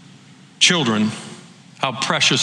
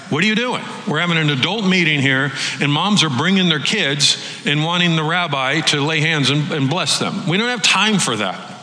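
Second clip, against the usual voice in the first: annoyed disciples; 3 semitones higher than usual. Retold or imitated. Disciples scolding the moms.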